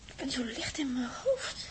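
ademloos gefluisterd, bijna wegvallend; zwak gefluister. Acted. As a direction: fluister het alsof je bijna flauwvalt. Flauwe meisje na versnelling. (zwak, licht in het hoofd gefluisterd)

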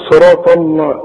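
"صراط الله" with thick l after ṭa; wrong heavy lam. Retold or imitated. Teacher shows a mistake, thick heavy l in "الله". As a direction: mimic the error, heavy l in "الله". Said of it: "في غلط هنا".

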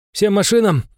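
high, loud battle order; grim command. A narrator's reading. Baroness ordering all guns to fire, loud grim command. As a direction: call it out loudly to every vehicle. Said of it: "хмуро проговорила баронесса".

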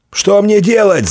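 very high-pitched desperate cry; wailing yell. A narrator's reading. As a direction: yell it in panic. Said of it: "завопил сотник".

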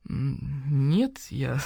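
flustered whisper. Acted. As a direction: murmur it, caught out. Caught out, unvoiced.

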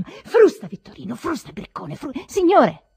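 loud rough coachman cry; a coachman yelling to his horse; coachman shouting. Acted. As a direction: bellow at the horse. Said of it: "Proferì l'uomo della terra".

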